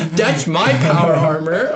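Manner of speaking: lightly voiced baby-talk imitation. Host imitating Maximus talking like a baby, mild baby talk. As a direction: mimic a toothless babyish mumble. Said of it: "talking like a baby now".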